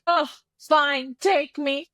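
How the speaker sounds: high, hammed-up swoon; mock swooning heroine. Mocking the heroine giving in, a hammed-up swoon.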